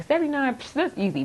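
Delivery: dismissive scoff. Retold or imitated. Voicing people dismissing the score.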